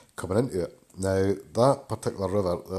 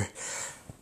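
sneezing; 16 dB quieter than usual. Real, not acted. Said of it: "And I'm probably gonna go".

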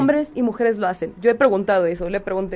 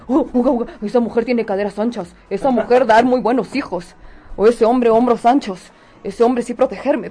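broken-grammar caveman voice, a bit louder; 4 dB louder than usual. Retold or imitated. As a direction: grunt it like a primitive brute. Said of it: "lo animal".

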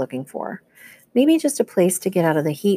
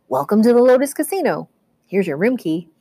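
high, bubbly bellhop greeting; cheerful bellhop; 4 semitones higher, 3 dB louder than usual. Acted. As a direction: welcome them like an eager bellhop.

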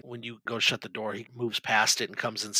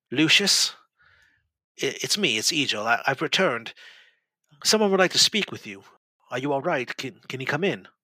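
hesitant monk voice; 3 semitones higher, 3 dB louder than usual. Acted. Monk knocks, calls to patient.

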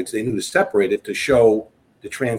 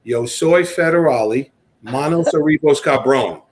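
Spanish phrase; slower than usual. Retold or imitated. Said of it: "my boss taught me to say this".

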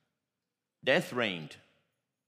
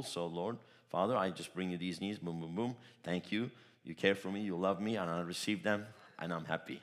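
prayer of faith; 2 semitones lower than usual. Shown as a demonstration. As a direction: speak to the Father simply, sure of the answer. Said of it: "That's the prayer of faith".

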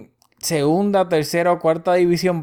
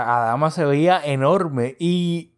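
talking through a yawn; slow, stretched words mid-yawn; slower than usual. Real, not acted. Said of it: "estoy bostezando".

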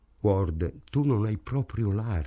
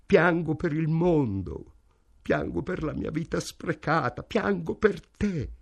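a mother pouring out her grief; desperate; 8 semitones higher than usual. A narrator's reading. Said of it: "disse con accento disperato". (lamento disperato, acuto e lento)

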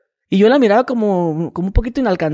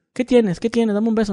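put-on girlfriend voice; 4 semitones higher than usual.

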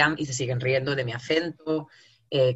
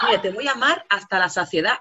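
mock romantic; 5 semitones higher, 4 dB louder than usual. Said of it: "Tía, suena poético".

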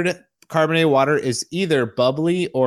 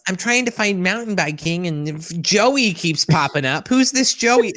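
confused listener; 5 semitones higher than usual. Retold or imitated. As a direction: play a puzzled searcher, rising high. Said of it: "someone's like".

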